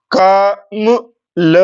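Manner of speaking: "कमल" very slowly, मा dropped short between drawn-out क and ल; slow "कमल" with an unstressed, reduced middle syllable; anudatta on मा. Shown as a demonstration. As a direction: stretch क and ल, swallow the मा in "कमल". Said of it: "मां को अनुदात्त करूंगा".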